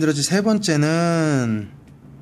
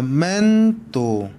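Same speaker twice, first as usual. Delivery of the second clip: 아파르타멘토 with 멘 long and raised; stress on 멘; 4 semitones higher than usual. Shown as a demonstration. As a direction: punch and stretch the 멘 in 아파르타멘토. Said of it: "끝에서 두 번째". (아파르타멘토의 '멘'을 높고 길게 강세)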